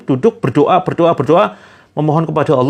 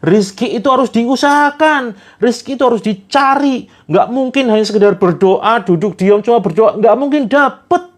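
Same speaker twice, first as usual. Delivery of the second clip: gloating voice; 3 semitones higher than usual. Acted. Kodar gloats to Jabar that rizki must be sought. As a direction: crow over the win, teasing. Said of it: "Sambil dia ketawa".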